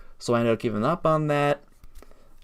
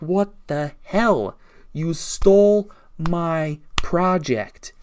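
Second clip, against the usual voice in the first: retold angry accusation; 3 semitones higher, much slower than usual. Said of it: "And I'm getting angry".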